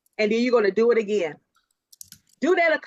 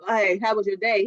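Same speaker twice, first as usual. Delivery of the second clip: flat, lower greeting with a frown; 3 semitones lower than usual. Retold or imitated. Wife greeting her husband while worried, a mild frown in the voice. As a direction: ask it weighed down, no smile. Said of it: "if I had that frown on my face".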